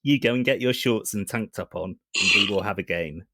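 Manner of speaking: calm computer voice, mildly menacing; soothing AI, slightly sinister; HAL robot voice. Acted. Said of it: "My robot voice?".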